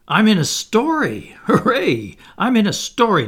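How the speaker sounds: high, loud cheering; thrilled child. Acted. Toodles learning he is in the story, thrilled. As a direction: crow with excited delight.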